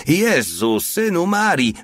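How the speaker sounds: high-pitched alarmed exclamation; yelled oath. A narrator's reading. Porta facing a revolver barrel, alarmed yell. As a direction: cry out as the pitch leaps up. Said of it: "wrzasnął Porta".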